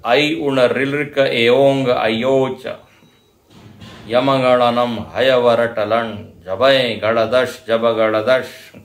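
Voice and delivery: slow chanted recitation of the Maheshwara Sutras; recited sutras. Shown as a demonstration. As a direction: intone each syllable group slowly. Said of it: "ये माहेश्वर सूत्र इसको कहते हैं". (धीमा सस्वर पाठ)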